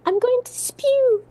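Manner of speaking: put-on high, drawn-out little-kid voice; imitating little nephew. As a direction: mimic a small child about to throw up. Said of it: "I remember her little nephew".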